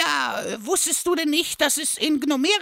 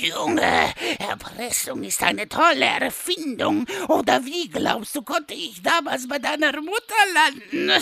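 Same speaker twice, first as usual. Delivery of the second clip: lightly voiced father. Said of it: "sagte er".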